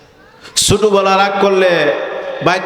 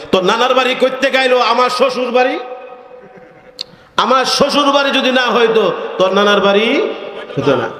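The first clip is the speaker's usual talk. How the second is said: angry father; 5 semitones higher than usual. Retold or imitated. Father scolding son.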